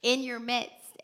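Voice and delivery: tender but firm, slowed right down; voicing Jesus tenderly. Preacher voicing Jesus to weeping Mary, slow and insistent. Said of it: "And it's like".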